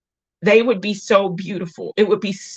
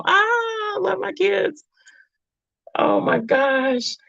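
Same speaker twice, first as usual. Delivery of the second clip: tender, smiling; 13 semitones higher, slower than usual. Real, not acted. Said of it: "I'm starting to smile right now".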